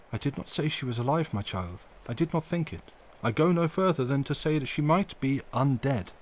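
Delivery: a lightly voiced old professor, gentle but firm; grave old doctor soothing the young man; Van Helsing. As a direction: correct him patiently. Van Helsing calms Arthur.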